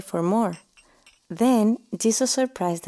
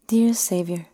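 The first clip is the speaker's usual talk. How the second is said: whispered prayer. Acted.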